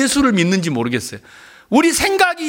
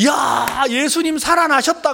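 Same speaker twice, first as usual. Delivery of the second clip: excited realisation; 4 semitones higher than usual. Retold or imitated. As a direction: imitate a disciple announcing astonishing news. Disciples realise Jesus is alive. (들떠서 높게 외치는 흉내)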